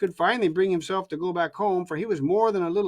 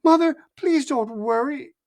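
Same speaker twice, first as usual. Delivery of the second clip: forced cheer; 7 semitones higher, 4 dB louder than usual. A narrator's reading. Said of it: "trying to sound cheerful".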